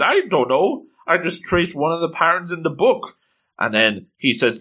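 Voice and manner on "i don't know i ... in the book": put-on mildly frightened young witch, higher pitch; scared. Scared Coco answers Quifrey about the spell, mildly frightened. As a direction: act out a timid, higher-pitched excuse. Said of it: "she's scared and she's afraid".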